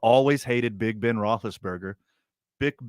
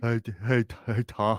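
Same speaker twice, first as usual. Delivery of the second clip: put-on smart puppy character voice. Showing the voice of a really smart puppy greeting tom: imitating a smart puppy. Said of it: "That's not a smart puppy".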